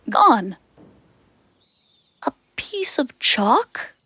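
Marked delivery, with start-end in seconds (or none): 2.2-3.9 slow, puzzled question; a touch of disbelief, drawn out slowly; surprised. Retold or imitated. Lou wonders why the wolf wants chalk, slow. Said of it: "asks Lou, surprised".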